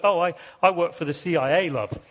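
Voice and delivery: put-on East London accent of a passport officer; thick East London accent. Officer joking with a traveller, thick East London accent. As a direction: play along in East London English. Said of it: "in his thick East London accent".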